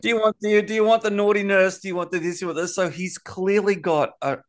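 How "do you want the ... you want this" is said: mock seductive offer. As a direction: play the wife offering options, a touch coy. Ham's wife offering menu.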